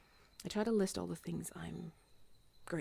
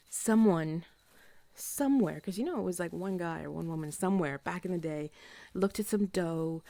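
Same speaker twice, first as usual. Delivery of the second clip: playful excited; 5 dB louder than usual. Real, not acted. Pizza enthusiasm, louder.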